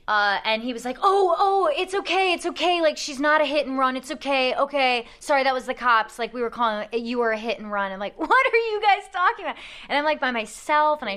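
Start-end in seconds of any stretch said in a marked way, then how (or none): 1.0-7.9 put-on high, loud, fast-talking flustered teen; hammed-up nervous son backpedaling. The son's panicky excuses voiced. 8.2-9.6 high, loud disbelief; incredulous driver to the scammers; baffled. Retold or imitated.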